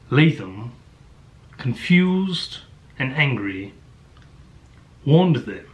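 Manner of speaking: halting, imitated British audiobook narration; British narrator imitation with weighty pauses; mock British narrator. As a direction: read it in a put-on British accent. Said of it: "has a strong British accent".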